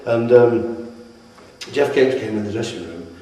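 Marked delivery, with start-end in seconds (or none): none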